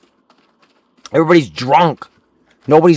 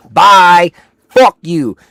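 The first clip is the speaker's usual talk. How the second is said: loud mock farewell, pitched up; mock shout off; 5 semitones higher, 8 dB louder, much slower than usual. Storming out of the forklift job, loud mock farewell. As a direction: yell it as you storm out.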